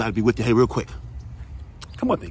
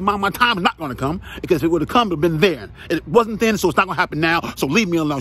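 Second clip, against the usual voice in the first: put-on higher, stubborn teenage protest to mom; son protesting to mom; 4 semitones higher than usual. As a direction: play the defiant son pushing back at his mom. Son arguing back with mom.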